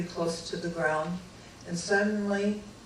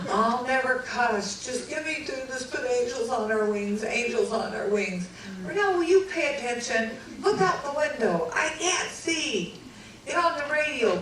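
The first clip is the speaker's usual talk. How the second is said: agitated pilot; 4 semitones higher than usual. Retold or imitated. Pilot praying and ordering her.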